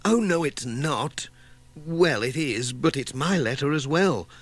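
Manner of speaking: a touch of excited surprise; excited cry. Acted. Missus Pottage kneels by the letter piece, excited cry. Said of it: "cried Missus Pottage".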